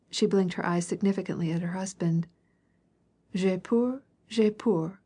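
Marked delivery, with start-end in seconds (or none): 3.3-5.0 whispered fear. A narrator's reading. Princess confessing fear to her husband, hushed. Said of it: "she whispered".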